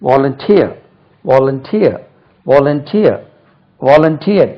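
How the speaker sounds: volunteer repeated as vo-lun-TEER; volunteer with a strong final syllable; pronunciation demo. Shown as a demonstration. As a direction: drill volunteer, each time leaning on "teer". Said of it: "உச்சரிப்பு கவனிங்க".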